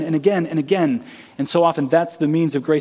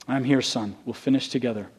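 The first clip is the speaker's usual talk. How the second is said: hushed; 6 semitones lower, 7 dB quieter than usual. Acted. God's words repeated, hushed.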